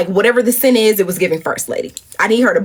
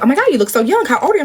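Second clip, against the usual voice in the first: amazed question; 7 semitones higher, much faster than usual. Retold or imitated. Voicing Michelle's amazed reaction.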